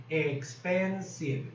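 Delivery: EXPENSIVE drawn out as ex-pen-sive; syllable by syllable. Shown as a demonstration. Shows the word has several syllables.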